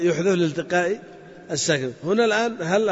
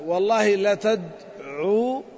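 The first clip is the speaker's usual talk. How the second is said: slow demo; much slower than usual. Shown as a demonstration. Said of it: "نقول".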